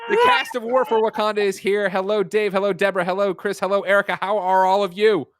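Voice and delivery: high-pitched showman's welcome; excited announcing. Real, not acted. Host welcoming the game's cast to the launch party, excited. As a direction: greet each one with big hype.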